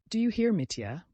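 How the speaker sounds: high, pressing question; insistent. A narrator's reading. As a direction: press him until he answers. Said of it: "she went on insistently".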